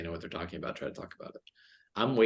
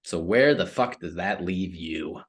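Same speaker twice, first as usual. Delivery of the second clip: angry. Real, not acted. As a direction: pound each word out in anger. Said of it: "I just got angry".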